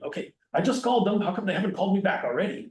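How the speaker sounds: mock impatient caller. Imagined impatient modern caller.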